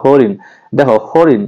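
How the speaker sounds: "হরিণ" with a long "হো"; lengthened first syllable. Shown as a demonstration. Teacher showing students the long syllable, lengthened first syllable. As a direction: hold the first vowel of "হরিণ". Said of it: "আমরা দীর্ঘ করে উচ্চারণ করি".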